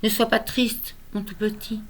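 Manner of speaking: lyrical recital, line endings left to fall away; tender, measured poetry recitation; poem reading. Acted. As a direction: comfort a small child through verse, pausing between phrases. Recites consoling poem to grandson.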